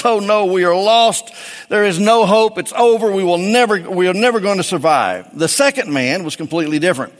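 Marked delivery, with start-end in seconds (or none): 0.0-5.4 panicked despair. Acted. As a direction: play it like all hope is gone, mock panic. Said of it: "completely went to pieces".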